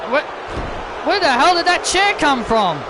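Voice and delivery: shocked wrestling commentary; startled play-by-play. Acted. Commentator baffled where that chair came from, startled play-by-play. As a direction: cry out in surprise at the ringside. Calls a chair appearing live.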